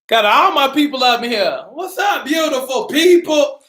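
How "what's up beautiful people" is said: hype greeting. Real, not acted. Host greets livestream viewers.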